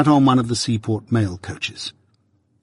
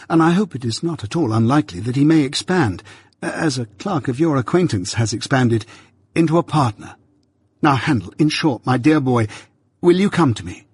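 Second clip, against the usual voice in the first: put-on lightly raised, eager young man's voice; earnest young friend; 3 semitones higher than usual. A friend coaxing his friend to plan ahead, slightly higher. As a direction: press him kindly, a touch higher. Herbert offers partnership.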